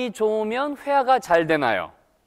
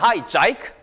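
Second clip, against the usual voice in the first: Aussie greeting, "Jake" as "Jike"; imitated Australian hello; Australian accent; 2 semitones higher than usual. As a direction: mimic an Australian friend saying "Jake", rising. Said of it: "호주 친구들이 저한테".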